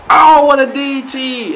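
sudden high, loud and slow cry; excited commentator shout. Real, not acted. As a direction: yell it out as the move lands. Big move during match commentary.

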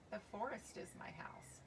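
whispered, gentle tree voice; tree whispering. A narrator's reading. Tree answers the boy in a whisper. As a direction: hush it like a secret.

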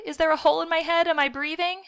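fast, high-pitched frantic questions; blubbering. A narrator's reading. Boy sure he is badly wounded, blubbering. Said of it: "I blubbered".

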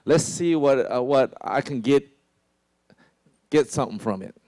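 scheming. Retold or imitated. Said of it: "His posture is".

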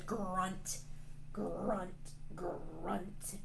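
soft rolled "grrrunt"; grunting. Pretend. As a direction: grunt the word like a wrestling dragon. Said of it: "This one says".

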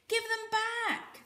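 high, loud, slow angry demand; snarling. A narrator's reading. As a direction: snarl it at the bully. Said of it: "Volga snarled".

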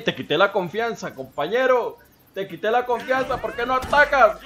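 rising taunting jeer, building to a yell. Real, not acted. Taunting opponent mid-fight.

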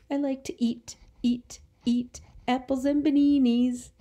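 whispered eat, eat apples. Shown as a demonstration. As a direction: breathe the words, no voice. Teacher models word in sentence.

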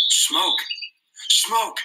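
high, urgent shout across the water. A narrator's reading. Boy spotting a ship shouts to the others, high and urgent. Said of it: "he was on his feet and shouting".

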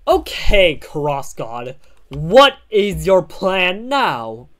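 lightly voiced character confronting a foe; slow, emphatic cartoon-hero question. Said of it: "I gotta do the voice again".

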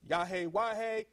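"Yahweh, Waheh" as four syllables, yah-hay wah-hay; alternative pronunciation. Shown as a demonstration. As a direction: sound out "Yahweh, Waheh" with two "hay" endings. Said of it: "some pronounce it".

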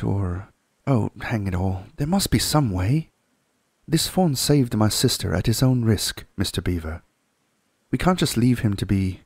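put-on boy urging the beaver; Peter urging. Peter urging Mr Beaver to act, eager boy voice.

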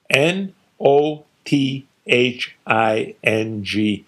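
N O T H I N G spelled slowly letter by letter. Retold or imitated. Father spelling out N O T H I N G to dismiss France. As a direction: hammer each letter home.

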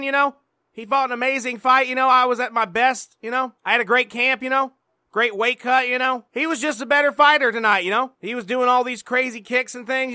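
a touch of a dazed fighter, you-know after every phrase; Johnny Hendricks voice. Acted. Johnny answers with constant you-knows.

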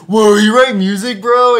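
high, loud amazed question; mock surprise. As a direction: act impressed. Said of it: "everyone was like".

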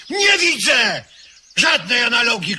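loud, high protest; shout. Acted. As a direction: shout it back at him. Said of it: "krzyknąłem". (głośny okrzyk oburzenia)

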